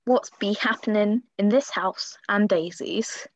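loud show intro; segment announcer. Pretend. Host introducing the Happenings in the House segment, loud announcer delivery.

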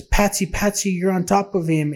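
imitating a panicked cry without full volume; retold scream. Mom alerts Patsy she ran over her son, mild mock scream. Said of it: "she starts screaming and she says".

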